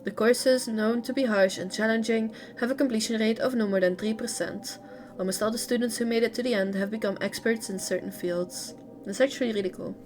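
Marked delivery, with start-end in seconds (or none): 0.0-8.8 lively read-aloud intonation. A narrator's reading. Streamer reading a character's story to viewers, read-aloud narration. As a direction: read game lore out in phrases. Reads game lore aloud.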